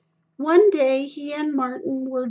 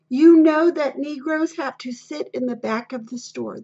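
clerk's insistence; 5 dB louder than usual. Acted.

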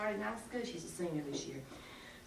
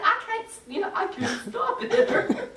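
high, loud retold laughing fit; imitating laughing girl; 12 semitones higher, 8 dB louder than usual. Girl who can't stop talking in dialect, imitated laughing. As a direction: act out helpless giggling, laughing through the words. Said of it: "she come out laughing".

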